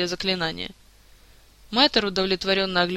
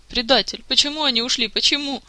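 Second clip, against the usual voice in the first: accusing; 5 semitones higher than usual. Acted. Orlando accusing the king.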